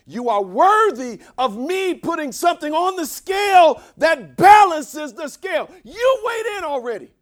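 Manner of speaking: high, loud cries with stretched key words; full-force preaching. Real, not acted. Preacher declaring that God deserves it, impassioned shouting. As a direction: drive it home with shouted, drawn-out peaks.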